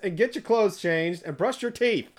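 high, slow, strained scolding; hammed-up exasperated parent command; stern parent order. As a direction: order the kid upstairs, slowly and emphatically. Parent orders daughter, retold.

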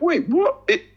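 high-pitched, offended retort; mock indignation. Podcaster retorting to Americans mocking British accents, mock indignation. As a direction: answer back in a high, affronted voice. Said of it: "I got so fucking angry".

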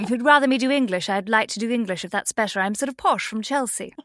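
lightly put-on posh Chelsea English; posh English accent. Shown as a demonstration. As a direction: do a touch of posh London English. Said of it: "I could do English for you".

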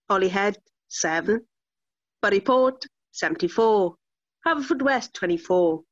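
lightly voiced bingo caller. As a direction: call the scores like bingo numbers. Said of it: "You're saying it like a bingo caller".

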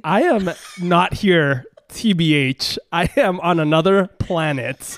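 tipsy, slow and loose. Real, not acted. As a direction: talk like you've had a few. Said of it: "I'm drunk".

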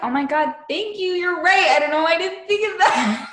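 high, fast, tearful mock gratitude; mock gushing. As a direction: gush like a fake-crying fan.

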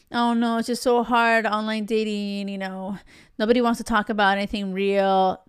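lightly put-on complaining dater; mock whiny excuse. Coach mimicking a dater's excuses about online dating, mock whiny. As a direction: imitate someone moaning in resignation.

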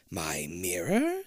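slow monster-voiced outraged question; screech. A narrator's reading. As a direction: drag it out in a creature voice. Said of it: "the Queen screeches".

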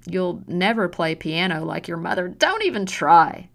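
slow, loud contempt; sneering insults. Acted. Mother belittling her daughter's hands, slow and contemptuous. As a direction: spit every insult at her.

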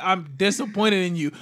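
lightly voiced disappointed father; just a hint of the dad; retold dad. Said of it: "My dad looked at me and literally was like".

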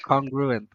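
congruent with CON too full; mispronounced attempt. Real, not acted. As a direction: have another wrong go at congruent as CON-gru-ent. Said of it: "No, congruent".

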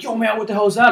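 imitating a riled-up kid; hammed-up confrontation; mock angry retort. Angry kid quoted in face.

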